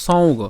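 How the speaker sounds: সৌগ said as so-u-go; model pronunciation. Shown as a demonstration. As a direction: let the u be heard inside সৌগ. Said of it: "তো এর উচ্চারণটা কেমন?". (সৌগ-তে "উ" স্পষ্ট উচ্চারণ)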